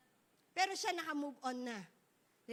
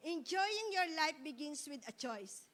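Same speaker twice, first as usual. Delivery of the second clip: slow emphatic; slower than usual. Shown as a demonstration. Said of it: "ulit po".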